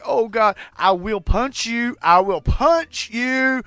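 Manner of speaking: high, loud, slow frightened threat; mock terror, drawing out each word; panicky threat. Scared in VR, threatening the little girls in a high panicky voice.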